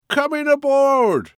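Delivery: high, loud call up to the ship; sailor's shout. A narrator's reading. Rowing sailor shouting up to the ship, loud call. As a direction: bellow it up the hull like a deckhand. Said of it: "shouted up to the ship".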